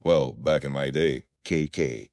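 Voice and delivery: put-on creaky, flat old-timer storytelling drone; creaky monotone voice. Shown as a demonstration. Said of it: "tell stories in a creaky, monotone voice".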